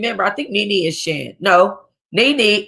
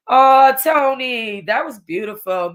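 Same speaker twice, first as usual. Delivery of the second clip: touched; 4 semitones higher, slower than usual. Real, not acted. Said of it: "I'm emotional".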